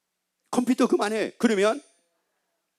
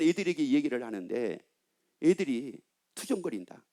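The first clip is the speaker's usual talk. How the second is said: ordinary talk, nothing marked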